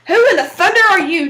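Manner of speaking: loud gruff demand. Acted. Jack demanding the stranger's name, loud and rough. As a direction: bark it at the stranger. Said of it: "Jack demanded".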